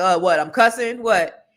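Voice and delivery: playing innocent with dad; mock surprise. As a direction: act caught off guard. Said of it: "I was like".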